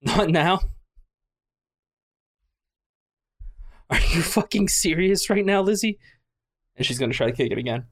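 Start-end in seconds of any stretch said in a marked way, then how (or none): 0.0-6.0 yelling through the door. Acted. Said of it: "she would hear yelling through the door".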